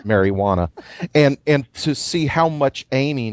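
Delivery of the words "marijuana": mock-accented marijuana, lightly put on; Carl's accent. Teasing a co-host about how he says the word, imitated accent. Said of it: "say the word in his accent".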